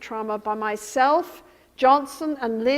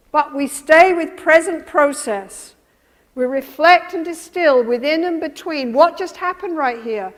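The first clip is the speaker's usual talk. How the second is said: emphatic lecture; 4 semitones higher, 9 dB louder than usual. Real, not acted.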